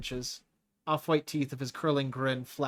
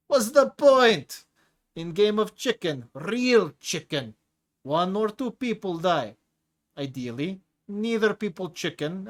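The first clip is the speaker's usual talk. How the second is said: hulking prisoner bellowing his creed at Leo; Tigra's booming rant; 5 semitones higher, 6 dB louder than usual. Acted. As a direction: throw it out big and gleeful like a brute preaching. Tigra laughs, arms up, ranting.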